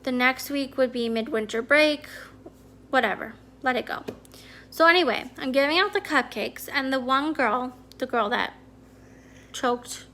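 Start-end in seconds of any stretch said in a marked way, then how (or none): 3.6-4.0 whispered to herself, letting it go; a soft whispered aside. Real, not acted. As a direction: breathe it out as a quiet whisper. Repeats resignation to herself.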